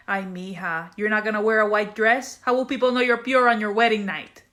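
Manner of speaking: lightly voiced Spanish-speaking grandma; a hint of a disapproving abuela; grandmother. Abuela questions her grandchild's wedding tux, lightly imitated grandmother. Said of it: "Abuela, I got my wedding tux".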